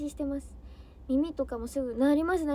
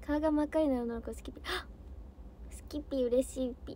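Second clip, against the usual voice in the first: ordinary delivery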